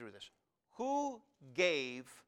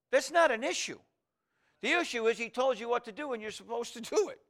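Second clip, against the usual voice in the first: loud, high declaration; a pastor's forceful punchline; preaching emphasis; 9 semitones higher, 4 dB louder than usual. Acted. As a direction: proclaim it from the pulpit.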